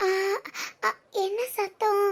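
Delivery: soft, slow, uneasy question; hushed and drawn out; wary. Acted. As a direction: wonder cautiously about a noise. Startled by a noise at night.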